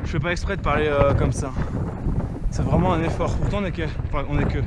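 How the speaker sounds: out of breath after the climb; panting between words. Real, not acted. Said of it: "Je suis vraiment essoufflé".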